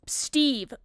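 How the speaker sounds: loud mock shout; retold scream. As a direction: yell at him to come back. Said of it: "I scream, as Vanny".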